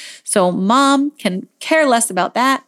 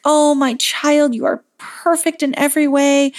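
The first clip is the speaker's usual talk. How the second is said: acted motherly adoration; 4 semitones higher than usual. Mom voiced praising her child.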